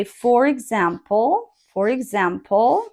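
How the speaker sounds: rising tone before a short pause; pause after for example. Shown as a demonstration. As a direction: lift "example" and stop. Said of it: "then you make a short pause here".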